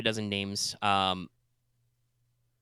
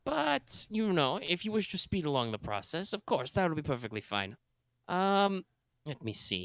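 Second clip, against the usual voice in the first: put-on space German accent; 6 semitones higher, 4 dB quieter than usual. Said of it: "My, my space German accent".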